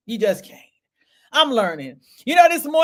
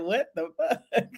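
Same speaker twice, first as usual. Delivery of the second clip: stunned disbelief; 5 dB quieter, slower than usual. Retold or imitated. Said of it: "I was like".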